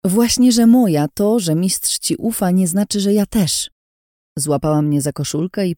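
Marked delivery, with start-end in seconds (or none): 0.0-3.7 loud, higher-pitched comeback; heated, insistent contradiction; angry retort. A narrator's reading. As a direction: fire back defiantly in a quarrel. Heroine snaps back in the quarrel.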